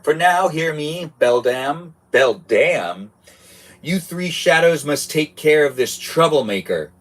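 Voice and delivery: a hint of a ruler giving orders; lightly voiced commanding boss. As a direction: boss ordering the three shadows.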